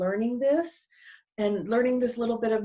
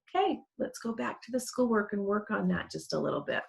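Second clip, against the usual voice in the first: soft calm coaxing voice; 4 dB quieter, faster than usual. Shown as a demonstration. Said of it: "in a very calm voice".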